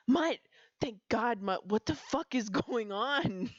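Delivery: urgent shout of the name, then a fast frantic question; urgent call. Acted. Poppy finding Mutt in the crowd, urgent. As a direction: grab him and call out urgently. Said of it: "grabbing his sleeve urgently".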